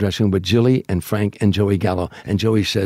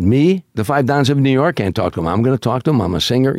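higher, emphatic disbelief; incredulous protest; 4 semitones higher than usual. Retold or imitated. Frank asked to talk to Crazy Joey, incredulous protest. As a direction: balk at an impossible errand, leaning on "Me". Frank balks at same request.

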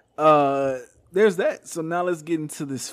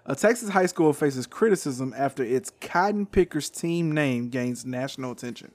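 news reading; slower than usual. Shown as a demonstration. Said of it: "I'm gonna read this off".

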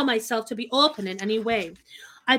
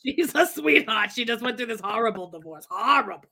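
put-on old Jewish woman voice; 3 dB louder than usual. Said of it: "Where is this voice coming from".

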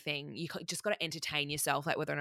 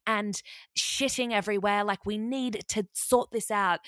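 put-on higher, louder panicked girl voice; mock freaking out; 6 semitones higher, 4 dB louder than usual. Housemates panicking about animal mess in bathroom, higher and louder. Some of the girls were freaking out.

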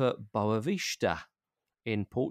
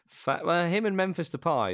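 ordinary delivery

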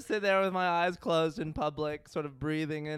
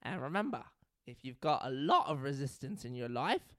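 lightly put-on British therapist voice; attempted British accent. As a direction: reassure in a mild mock British accent. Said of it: "I'm trying to do British".

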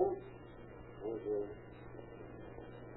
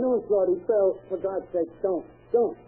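higher, begging and insisting; pleading for life; 5 semitones higher than usual. Acted. Mickey to Shorty and Bill at gunpoint, frightened pleading. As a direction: beg them not to shoot.

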